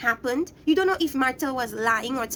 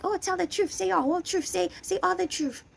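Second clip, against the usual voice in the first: higher, prissy mock voice; mocking Letitia; 6 semitones higher than usual. Recapper mocks Letitia urging Martell, higher voice. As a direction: parrot her in a high sing-song. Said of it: "she's like".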